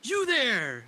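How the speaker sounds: loud, high call across the beach; pirate shout. Acted. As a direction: hail them like a ship's captain. Instructor calls to newcomer.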